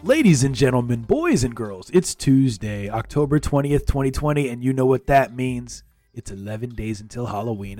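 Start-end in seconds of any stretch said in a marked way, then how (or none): 0.0-5.8 loud showman announcing to the crowd; booming kids show opener. Acted. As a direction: ringmaster welcome, big and loud. Host opens the show loudly.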